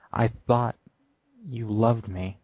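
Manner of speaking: a hint of quiet heartbreak; quiet hurt. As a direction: say it straight into her eyes. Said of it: "looked up slowly".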